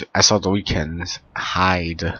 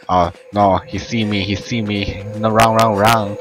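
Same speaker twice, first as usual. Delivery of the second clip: panicked yelling; 2 semitones higher than usual. Real, not acted. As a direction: shout in real panic to flee. Panicked fleeing from chasers.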